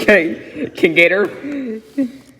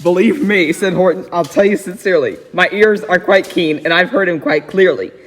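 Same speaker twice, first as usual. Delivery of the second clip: put-on reading a rhyming story aloud to a child. A narrator's reading. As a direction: read it like a bedtime book. Reads Seuss story aloud.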